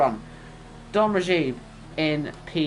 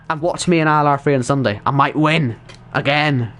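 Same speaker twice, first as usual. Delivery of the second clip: much louder, boastful sign-off; loud hype; 6 dB louder than usual. Real, not acted. Streamer teasing viewers about Sunday's race, loud cheeky hype. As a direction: shout it like a cheeky brag.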